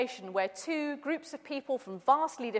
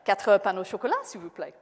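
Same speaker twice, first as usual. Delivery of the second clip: put-on a louder retry of the order, same English accent; repeated English-accented French; 3 semitones lower, 5 dB louder than usual. Englishman repeating his order to a blank baker. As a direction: say it again a little louder for the baker. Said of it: "I repeated my order".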